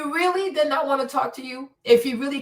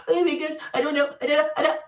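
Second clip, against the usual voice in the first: higher-pitched imitation of tearful excuses; mock tearful; 4 semitones higher, faster than usual. Host mimicking a woman's tears, mock tearful. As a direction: stammer through a mock weepy excuse. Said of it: "don't like all this tears".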